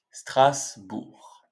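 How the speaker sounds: STRASBOURG split as Stras, bourg; syllable-by-syllable demo. Shown as a demonstration. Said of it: "cette ville s'appelle".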